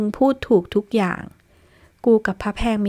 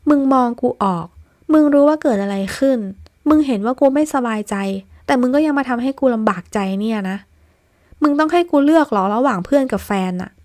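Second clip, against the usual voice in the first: loud, high-pitched hurt anger; cornered friend yelling back in pain; heated shouting; 3 semitones higher, 4 dB louder than usual. Acted. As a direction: pour out the frustration at full volume. Heated quarrel between friends.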